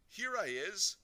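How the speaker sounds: high, loud announcement; calling out. A narrator's reading. Invisible boy answering his mummy, calling out. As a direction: call out to be found.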